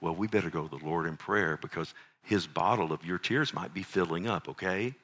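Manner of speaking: put-on low, soft coaxing of a crying child; retold dad gently consoling; quietly kidding a child out of tears; gentle father. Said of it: "as he's crying, I go".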